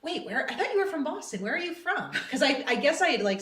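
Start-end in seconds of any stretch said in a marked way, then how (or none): 0.0-2.1 higher-pitched puzzled questioning; retold surprise, pitched up; retold puzzlement. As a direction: imitate a baffled coworker double-checking. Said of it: "that the woman went".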